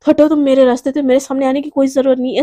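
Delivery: a firm furious order; angry. Acted. Garima ordering Anaya out of her way, angry and loud. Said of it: "गुस्से में नीचे मार देती".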